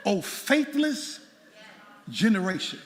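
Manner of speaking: slow, drawn-out solemn quote; preacher intoning Jesus' rebuke, slow and solemn; lofty Jesus quote. Retold or imitated. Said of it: "Jesus said".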